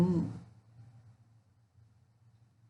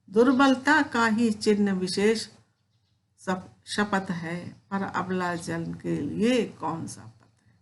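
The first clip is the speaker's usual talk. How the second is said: poem recitation. Acted. Teacher reciting Kaikeyi's plea to Ram, measured poem recitation. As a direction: recite the verse with feeling, slightly raised.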